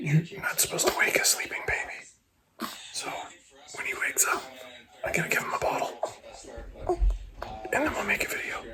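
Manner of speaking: whispered, very quiet, barely audible. Filming next to a sleeping baby that must not be woken, whispering.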